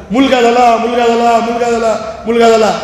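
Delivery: excited shouting of the news; a happy father blurting it out; joyful shout. Acted. Father shouting to the ward that it's a boy, excited. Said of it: "आणि जोराने ओरडला".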